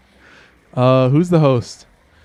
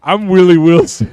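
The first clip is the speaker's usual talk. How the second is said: lightly voiced character intro, a bit louder; Willie Wilson; 4 semitones higher, 5 dB louder than usual. Character introduces himself, a light folksy voice. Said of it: "That's his name".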